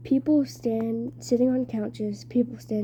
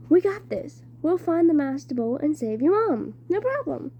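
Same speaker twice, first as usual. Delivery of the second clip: higher, louder, eager and upbeat; eager reassurance; 5 semitones higher, 3 dB louder than usual. Acted. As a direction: pump up a worried friend with bright confidence. Grover eagerly reassures Percy.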